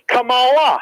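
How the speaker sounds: Kamala said ka-ma-LA, slow, stress on the last A; stress on third syllable. Shown as a demonstration. Host demos the final-A stress in Kamala, ka-ma-LA. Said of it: "if you put it on the third A".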